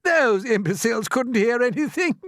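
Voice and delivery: high, loud, hilarious scorn; loud, high-pitched derision; roaring scoff. A narrator's reading. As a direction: crow it loudly, mocking them. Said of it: "The centipede roared with laughter".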